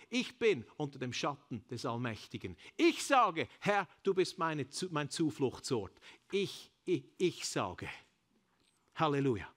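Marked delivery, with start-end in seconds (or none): 2.8-9.5 rising shouted declaration. Real, not acted. Preacher to the congregation, shouting his confession. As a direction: shout it out, high and loud.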